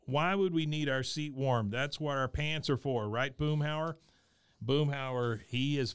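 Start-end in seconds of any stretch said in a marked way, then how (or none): 0.1-4.0 Hank. Retold or imitated. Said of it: "Hank starts piping up".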